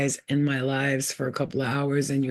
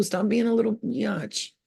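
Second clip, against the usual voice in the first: slow, high sassy scold; 6 semitones higher than usual. Retold or imitated. Speaker scolding viewers, slow high sassy scold. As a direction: stretch biatch out sassily.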